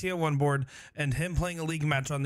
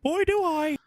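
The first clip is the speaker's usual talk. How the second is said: much higher, louder, eager exclamation; 13 semitones higher, 5 dB louder than usual. Pretend. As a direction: jump in like an eager fan. Scripted eager reply.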